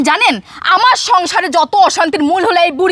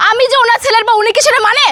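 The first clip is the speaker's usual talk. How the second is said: raised voice; 3 semitones higher than usual. Acted. Wife complains to neighbour about her mother-in-law, voice raised. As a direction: argue in a raised, indignant voice. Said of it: "আস্তে কথা বলেন".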